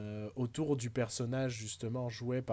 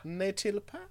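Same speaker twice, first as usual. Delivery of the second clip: higher mock English-accented tag question; 6 semitones higher, 3 dB quieter, slower than usual. Echoing friend's Astérix Briton joke, higher mock English accent. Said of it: "l'accent anglais".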